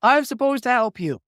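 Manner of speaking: slow, high imitation of a Southern man; Southern accent. Famous author confirms his mission by phone, in a Southern accent. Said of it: "this man with a Southern accent".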